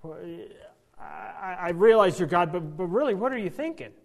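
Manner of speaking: a touch of exasperated disbelief; incredulous protest. Retold or imitated. Moses protesting to God, a touch of exasperation.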